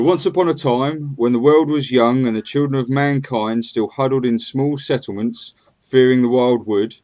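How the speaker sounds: solemn once-upon-a-time storyteller voice; grave ancient myth telling. Acted. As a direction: read it like an old legend by the fire. GM reads intro narration.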